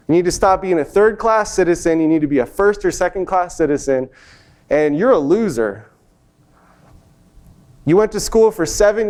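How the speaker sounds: a hint of an angry father, brisk at first; harsh dad lecture. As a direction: lay into him like a disappointed dad.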